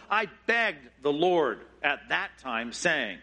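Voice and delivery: slow begging. Acted. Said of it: "He uses strong language".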